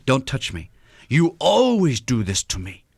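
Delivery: hurt and resentful, stretching out always; lightly acted wife pulling away, leaning on always; mock hurt complaint. Wife rebuffing her husband's touch, mildly hurt. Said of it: "said with that tone of voice".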